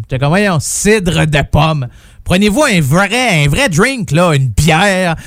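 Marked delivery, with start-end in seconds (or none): 0.3-1.9 slow disdainful scoff. Retold or imitated. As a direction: dismiss it with contempt. Scoffing at apple cider.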